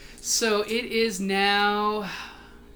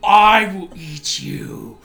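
slow snarling monster; 8 dB louder, much slower than usual. A narrator's reading. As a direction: growl it out slowly. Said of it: "he just snarls at you".

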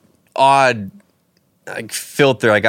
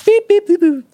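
high, slow robot beeps; much slower than usual. Pretend. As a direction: beep it out like a robot. Mimicking robot hands.

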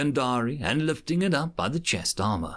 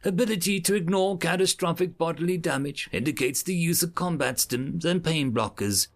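flat translator device voice; 3 semitones higher than usual. Acted. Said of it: "A mechanical translator voice droned".

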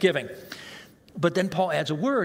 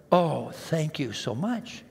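sugary mock gratitude, slowed; fake politeness; slower than usual. A sermon crowd hears the preacher's fake grateful reply. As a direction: gush thanks you don't mean. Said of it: "on the outside, I go".

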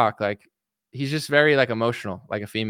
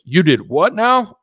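slow, loud, higher incredulous question; mock disbelief; 5 semitones higher, 6 dB louder, slower than usual. The host reacting to Jesse, slow loud disbelief. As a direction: drag it out in disbelief. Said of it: "And the guy's like".

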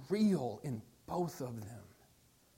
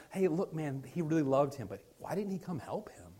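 gossiping crowd; 3 semitones lower, 5 dB quieter than usual. Retold or imitated. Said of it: "what they're doing to Jesus".

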